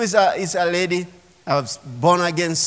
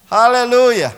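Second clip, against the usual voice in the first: praise shout; 3 semitones higher, 5 dB louder than usual. Real, not acted. Praise exclamation in worship.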